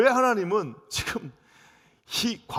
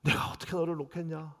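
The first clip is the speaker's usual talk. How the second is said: tearful plea; 6 dB quieter than usual. Acted. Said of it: "우시면서".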